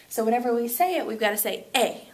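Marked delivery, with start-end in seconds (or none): 1.7-2.1 "E" pronounced as a firm Spanish é; stressed accented vowel. Shown as a demonstration. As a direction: put the stress squarely on "E". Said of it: "like, really loud".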